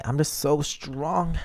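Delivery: slow, mock-proud brag; playful gloating; smug boast. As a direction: savour the boast slowly. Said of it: "What can I say?".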